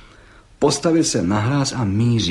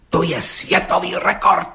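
excited; 6 semitones higher than usual. Acted. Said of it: "vyhrkl rozčileně".

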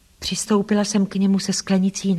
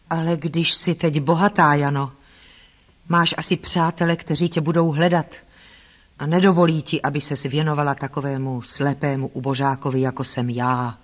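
lower, restrained man's voice with self-pity; lightly voiced doubting Rochester; 4 semitones lower than usual. Blind man fears rich Jane will leave, lightly voiced doubt. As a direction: lightly play the blind master doubting she will stay.

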